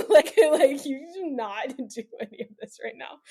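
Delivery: half-laughing retold warning; husband's warning retold through laughter; laughing while quoting husband. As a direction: quote him through giggles, pitch jumping high.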